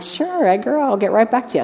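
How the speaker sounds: a chirpy, helpful missionary voice; sweet missionary voice. Retold or imitated. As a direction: put on your sweetest missionary manners. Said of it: "I put my best missionary voice on".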